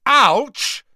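loud, high yelp of pain; pained bellow. A narrator's reading. Boy pricked by the seamstress's pin, bellowing. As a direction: yell out sharply, jabbed by a pin. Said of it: "bellowed Malfoy".

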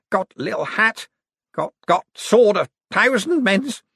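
high, slow, slurred feverish babble; delirious sick man. Acted. Sick man showing off his props, delirious. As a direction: babble slowly through a fever haze.

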